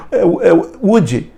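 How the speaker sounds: laughing, "would" said as "wudgy"; laughing mock error. Teacher laughing at the common mistake, amused mock. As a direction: chuckle through the wrong form. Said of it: "coloca um izinho depois".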